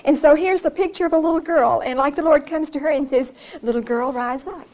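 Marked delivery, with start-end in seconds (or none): 3.6-4.7 put-on soft, gentle call to a child; sweetly tender. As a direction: coax a little girl awake, softly. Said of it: "he says it so sweetly".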